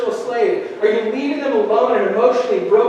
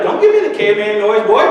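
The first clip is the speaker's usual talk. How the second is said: scolding parent; 5 dB louder than usual. Retold or imitated. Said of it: "I'll be like".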